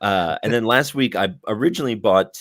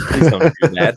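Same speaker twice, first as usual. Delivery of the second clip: loud; 8 semitones higher, 10 dB louder than usual. Real, not acted. Pleading over loud mic noise.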